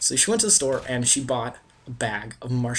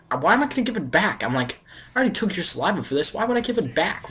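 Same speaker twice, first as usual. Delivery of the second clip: higher-pitched retold protest, a bit faster; indignant refusal; 6 semitones higher, faster than usual. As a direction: act out refusing her, indignant and high. Boy refuses to return marshmallow.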